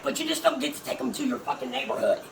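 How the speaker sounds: ordinary talk, nothing marked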